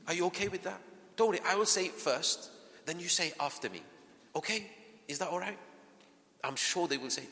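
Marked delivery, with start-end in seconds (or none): 0.1-5.6 put-on higher, softer reassurance to a child; reassuring parent. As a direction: gently ask the child's consent.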